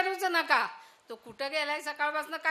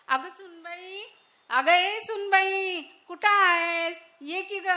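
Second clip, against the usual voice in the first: calling out; 5 semitones higher, 5 dB louder than usual. Acted. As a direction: shout for सुनबाई from the next room. Calls daughter-in-law loudly. (सुनेला मोठ्याने हाक)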